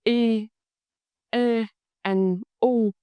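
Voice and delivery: "I, E, and U" letter by letter; spelled out. Shown as a demonstration. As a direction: spell out "I, E, and U" with gaps between them. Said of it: "It's spelled with three letters".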